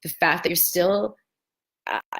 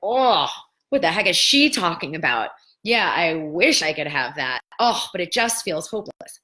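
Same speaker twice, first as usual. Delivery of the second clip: skeptical viewer; 4 dB louder than usual. Retold or imitated. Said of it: "you'd be like".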